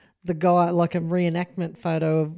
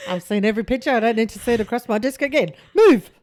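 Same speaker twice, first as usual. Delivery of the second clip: mock police boss, ending in a high, loud order; bossy senior sergeant; 3 semitones higher, 4 dB louder, faster than usual. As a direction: play an officious sergeant, bursting out on the last word.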